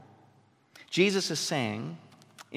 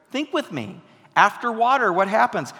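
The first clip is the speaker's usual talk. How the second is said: rousing; 5 semitones higher, 5 dB louder than usual. Real, not acted. Preacher rousing congregation.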